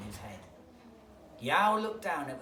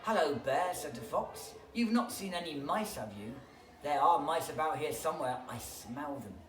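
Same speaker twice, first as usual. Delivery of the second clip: fox voice; 5 dB louder than usual. Acted.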